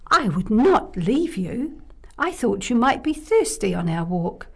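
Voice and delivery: lightly voiced kind fairy. Fairy explains the fountain.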